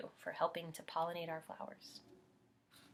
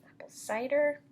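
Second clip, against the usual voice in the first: whisper; 7 semitones higher, 7 dB louder than usual. Acted. Whispered list item.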